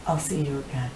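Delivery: put-on soft, murmured French accent. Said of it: "In the French accent".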